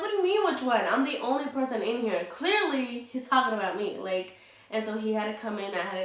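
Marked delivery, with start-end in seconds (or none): 0.0-4.0 much higher, louder, exasperated protest; answering the restaurant owner who called her boyfriend a liar; retold indignant disbelief. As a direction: cut in, outraged at being doubted. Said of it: "and I'm like".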